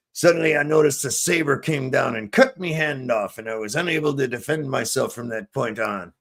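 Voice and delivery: lightly voiced joke pirate; a hint of pirate talk. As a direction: growl the "Arr" like an old sea dog. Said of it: "are you a pirate?".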